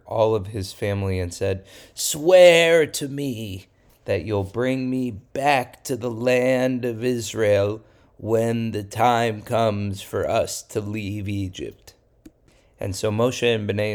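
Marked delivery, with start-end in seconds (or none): 1.9-11.9 slow, earnest plea; lightly voiced dying father asking a promise; slow solemn request; a hint of dying Yosef.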